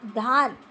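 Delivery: teacher stressing धार. Shown as a demonstration. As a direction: land hard on धार as the correction. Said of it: "ना होके धार पर".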